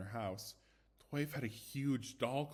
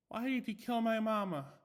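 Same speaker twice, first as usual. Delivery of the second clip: high, louder eerie doll voice; creepy doll; 10 semitones higher, 5 dB louder than usual. A narrator's reading. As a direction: accuse the killer in a toy's voice. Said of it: "and it said".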